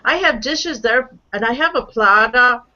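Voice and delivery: lightly imitated Boston accent; an amateur attempt at Boston speech. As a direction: mimic a Boston caller, R dropped in "Plata". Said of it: "like that. I don't know. I can't say it".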